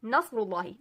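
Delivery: slow recitation of the verse "इदा जाअ नस्रुल्लाहि"; धीमी तिलावत; Quran recitation. Shown as a demonstration. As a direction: recite the ayah slowly and carefully. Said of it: "अब कुरान पाक की आयत है".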